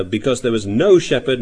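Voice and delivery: "no" stressed, falling away after it. Retold or imitated. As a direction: land the weight on "no". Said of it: "They put the emphasis on the word no".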